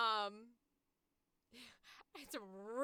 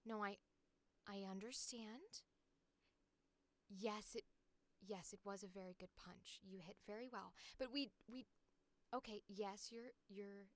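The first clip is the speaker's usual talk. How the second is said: put-on soft, gentle talking-to for a child; hushed, halting reprimand that gives way to approval; happy little character line; 7 dB quieter than usual. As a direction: gently scold a little kid, then quietly give in. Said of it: "I'll do this little happy line".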